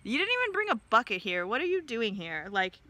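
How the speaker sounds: insulting brush-off. Retold or imitated. Woman mocking the stranger with no bucket, mildly scornful. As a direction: hurry him off with a light jab. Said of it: "she continues with her insults".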